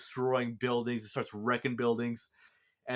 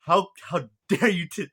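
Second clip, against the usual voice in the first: high, loud furious demand; angry accusation; 4 semitones higher, 9 dB louder than usual. Retold or imitated. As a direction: confront him over the letter, raging. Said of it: "the mechanic's like".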